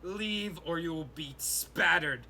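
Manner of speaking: loud, fast orc threat; threatening orc. Acted. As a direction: warn the intruder off like a brutal warlord. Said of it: "the orc say".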